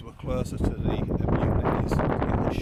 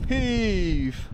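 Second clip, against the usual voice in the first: higher straining shout of heave; tug of war; 7 semitones higher, 4 dB louder than usual. Real, not acted. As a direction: heave it out with full effort. Tug of war effort call.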